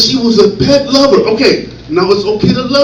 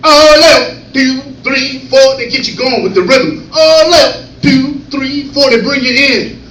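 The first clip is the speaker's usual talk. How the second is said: Army cadence call. Shown as a demonstration. Comic demoing the Army drill count, rhythmic call. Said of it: "In the Army".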